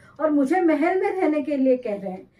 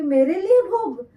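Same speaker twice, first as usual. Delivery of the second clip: pointed tone; 5 semitones higher, 3 dB louder than usual. Retold or imitated. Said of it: "ये जो स्वर है उनका".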